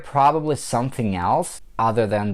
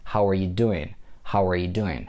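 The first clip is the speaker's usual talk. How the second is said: weight on "doing" in "How are you doing"; stress on DOING; 3 semitones lower than usual. Shown as a demonstration. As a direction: lean on the last word, "doing". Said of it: "pronounce it louder than the rest".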